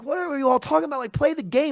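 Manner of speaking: what are you all on about; exasperated quote. Retold or imitated. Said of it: "I'm like".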